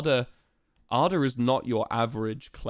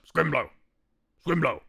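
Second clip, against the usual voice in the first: lightly voiced frog boy, two short falling calls; a hint of a little frog saying his name; 4 semitones higher than usual. Streamer shows chat how the frog character talks, lightly voiced. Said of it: "Talks like".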